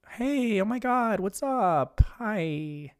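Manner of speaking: bright greeting pitched high, easing down; girl on the radio. Retold or imitated. Girl greets the radio station on air, lightly voiced high greeting. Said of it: "And the girl is like".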